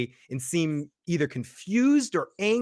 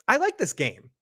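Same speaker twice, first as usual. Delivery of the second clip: mild menacing monster; 6 semitones higher than usual. Retold or imitated. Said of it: "Smiley goes".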